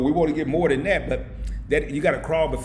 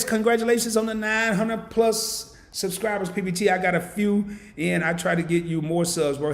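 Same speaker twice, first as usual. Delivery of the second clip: excited read-out; 6 semitones higher than usual. Real, not acted. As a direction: read the congrats with a big lift. Reading a chat message with excitement.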